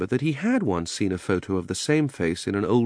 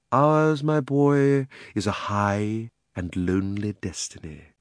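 grave, noble; slower than usual. Acted. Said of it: "sighed and looked so grave and noble".

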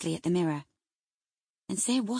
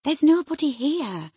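higher and louder, firm insistence; insisting; 8 semitones higher, 8 dB louder than usual. Acted. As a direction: cut through her fear firmly. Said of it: "I insisted".

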